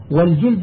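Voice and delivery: والجلد with short u after jim; vowelled juld. Shown as a demonstration. Teacher explaining the word for strong men says والجلد as "wal-juld". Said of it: "بالضم الأشداء من الرجال".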